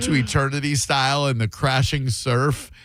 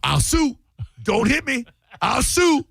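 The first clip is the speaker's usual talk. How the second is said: much higher whiny squeal; squealing promoter; 11 semitones higher than usual. Retold or imitated. Host imitates the Don King character, high whiny squeal.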